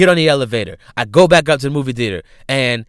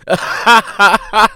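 loud, high belly laugh; burst of laughter; 8 semitones higher, 5 dB louder than usual. Real, not acted. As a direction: crack up out loud. Laughs at Safari being a clown.

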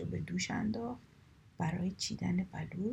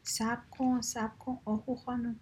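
higher, mildly raised call; angry cry; 4 semitones higher, 4 dB louder than usual. A narrator's reading. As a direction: call after someone crossly, short of a full shout. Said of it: "با عصبانیت فریاد زد". (فریاد عصبانی ملایم)

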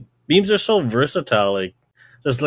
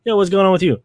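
imitating young coworker; 9 semitones higher, 3 dB louder, faster than usual. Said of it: "they're kinda just like".

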